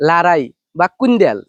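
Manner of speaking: লারাই বা কুন্দেল said slowly as local words; dialect words. Shown as a demonstration. Villager naming the local words for quarrel. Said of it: "আঞ্চলিক ভাষায় বলে".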